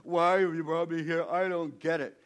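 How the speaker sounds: distressed prayer. Acted. Moses asks God why he's here, crying out. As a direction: cry out to God in protest. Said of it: "he starts to pray".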